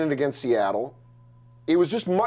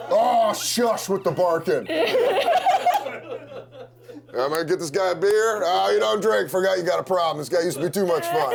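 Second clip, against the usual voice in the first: laughing hammed-up dad voice; the dad to the boyfriend, hammed-up gruff; girlfriend's dad; 3 semitones higher than usual. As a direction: boss the guest around like a gruff father. Dad character rambling at boyfriend.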